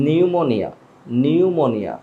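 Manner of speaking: নিউমোনিয়া said as "niumonia" with no p; silent p. Shown as a demonstration. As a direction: open নিউমোনিয়া on n, p dropped. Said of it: "পি এর উচ্চারণটা হবে না".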